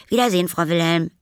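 high, loud, quick schoolboy farewell; Paul. Acted. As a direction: call goodbye in a hurry as a boy. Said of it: "rief er". (schneller, hoher Abschiedsruf)

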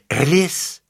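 a sharp, high, startled "Ellis?"; stunned question at the name; shocked. Acted. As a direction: blurt the name in disbelief. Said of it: "Jean-Pierre war so schockiert".

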